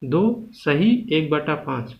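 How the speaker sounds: slow "दो सही एक बटा पाँच", each word spaced; slow demo reading. Shown as a demonstration. Teacher showing students how to read the fraction, slowly. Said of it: "ठीक है ना, ऐसे".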